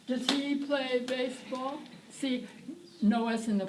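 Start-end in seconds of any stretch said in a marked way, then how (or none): 0.1-1.8 slow question. Shown as a demonstration. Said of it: "start with the yes/no question".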